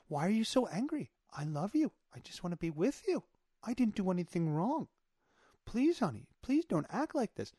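mock-innocent calm pleading. Imitating the woman answering her angry partner, calm pleading. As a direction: plead gently without raising the volume. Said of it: "I'm gonna stay calm".

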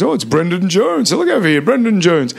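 Max Rowley calling. Retold or imitated. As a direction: boom it out like a radio announcer spotting a friend. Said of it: "I hear Max Rowley".

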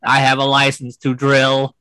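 robot voice. Pretend. Robot Bond jokes.

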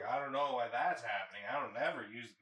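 mock-indignant denial; feigned innocence. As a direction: plead ignorance to your parents, too emphatically. Acts denying blame to parents.

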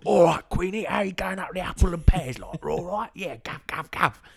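high, loud Cockney geezer voice; mocking subtitled TV with over-the-top Cockney, high and loud. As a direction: ham up a Cockney greeting the Queen. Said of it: "Cockney rhyming slang".

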